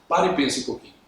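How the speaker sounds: ordinary talk, nothing marked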